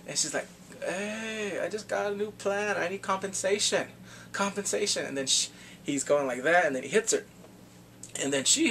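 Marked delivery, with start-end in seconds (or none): 0.8-5.1 lightly acted demand, pitched up; indignant demand. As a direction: put on her higher voice, insisting. Acting out her demand for compensation.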